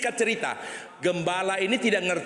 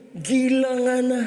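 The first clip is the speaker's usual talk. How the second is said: loud, slow disbelief; shocked exclamation; 8 semitones higher, 5 dB louder, slower than usual. Acted. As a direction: blurt it out shocked. Doctor exclaims. (dokter kaget berseru)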